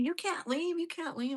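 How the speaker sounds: high-pitched imitation yell, no real volume; mock yelling. Somebody yelling at her in the crowd, mock yell. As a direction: imitate someone yelling an order. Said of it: "Somebody starts yelling at me".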